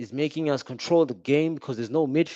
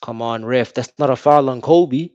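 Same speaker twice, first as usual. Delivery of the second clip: pleading with the referee; 6 dB louder than usual. Real, not acted. Disputing a foul call.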